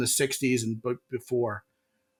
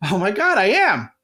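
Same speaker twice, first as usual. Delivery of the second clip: smug agreement; 5 semitones higher, 5 dB louder than usual. Retold or imitated. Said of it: "And you'll go".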